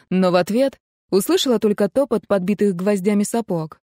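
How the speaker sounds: ordinary delivery, nothing marked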